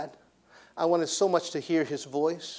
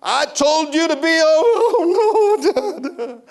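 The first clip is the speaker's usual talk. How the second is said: mock stern father; 12 dB louder, much slower than usual. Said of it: "voicing stern father, laughing".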